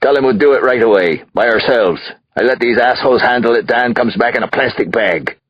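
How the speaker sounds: high, loud, belligerent tirade; high, heated outburst; angry rant. Acted. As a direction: rant at the cops through your lawyer. Angry father rants at the police.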